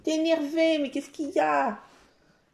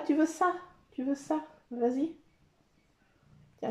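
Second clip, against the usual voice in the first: ordinary talk, nothing marked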